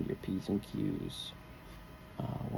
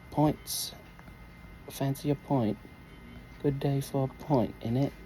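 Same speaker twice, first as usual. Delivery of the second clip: put-on playful British pub accent. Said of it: "You like my British accent".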